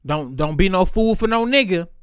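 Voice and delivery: a hint of a stern grandma advising girls; lightly voiced grandma lecturing young women; grandma's warning. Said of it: "grandmother would petition women".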